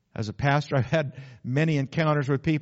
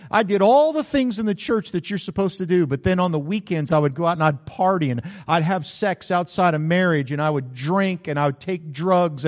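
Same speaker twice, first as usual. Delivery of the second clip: higher and louder, pouring it out; tearful confession; 4 semitones higher, 6 dB louder than usual. Retold or imitated. Preacher retelling a young woman's confession, raised and urgent. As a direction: cry it out like a girl confessing in the baptism tank. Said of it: "she said".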